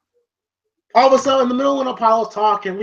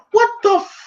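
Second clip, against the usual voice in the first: much higher, baffled what-the-fuck; retold incredulous outburst, pitched way up; 12 semitones higher than usual. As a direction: throw it up in disbelief. His own baffled reaction retold.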